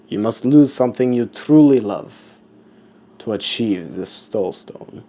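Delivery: emphatic pronouncement, swelling then easing off; skull-faced guardian. Acted. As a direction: proclaim it like a guardian setting terms. Skull figure continues its solemn warning.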